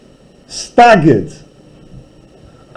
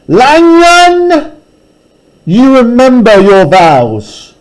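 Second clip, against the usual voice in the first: commanding Hyde; 7 semitones higher, slower than usual. Acted.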